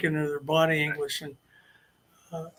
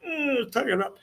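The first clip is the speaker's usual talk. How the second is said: straining effort; 6 semitones higher, 4 dB quieter than usual. Retold or imitated. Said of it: "you go".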